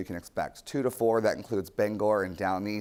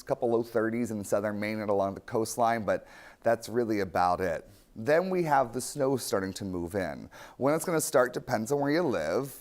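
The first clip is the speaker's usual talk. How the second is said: upbeat TV weathercaster read; walk viewers through the forecast; weather forecast. Acted.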